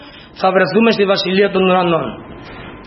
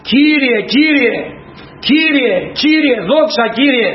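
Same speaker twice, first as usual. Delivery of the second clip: drawn-out high pleading Κύριε, Κύριε, slow and sung out; a believer crying out to the Lord, hammed up slowly; mock pleading cry; 5 semitones higher, much slower than usual. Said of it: "όποιος φωνάζει". (αργή, ψηλή ικεσία «Κύριε, Κύριε»)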